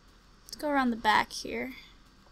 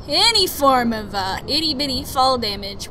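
any form of blurted loud; real alarm; louder panicked; 7 dB louder than usual. Real, not acted. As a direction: panicky burst. Panicked repeat, much louder.

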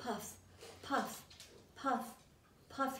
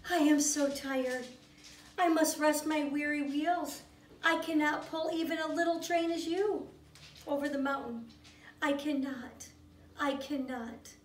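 weary sigh. Acted. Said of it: "the rusty old engine sighed".

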